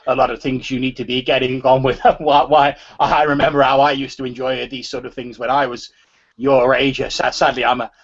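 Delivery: lightly voiced, stammering old man. Old man excusing himself to youngsters, lightly voiced rambling old man. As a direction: ramble haltingly as an old man, a touch of age in the voice. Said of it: "the voice of an old man".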